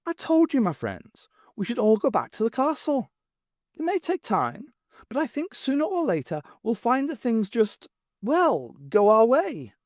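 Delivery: high, softened voice full of longing; longing lady voice. Acted. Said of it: "her manner softened ... longing".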